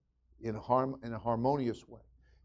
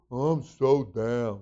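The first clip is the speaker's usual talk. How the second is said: mock gloomy; much slower than usual.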